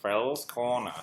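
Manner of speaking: odd, drawn-out creepy voice; creepy Phil's Corner voice. Pretend. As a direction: say it like a creepy host. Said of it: "that creepy voice".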